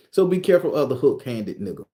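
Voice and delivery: a hint of a cocky loa speaking through him; possessed Baron voice. Streamer lets the Baron lecture viewers, lightly voiced. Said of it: "I don't talk like this".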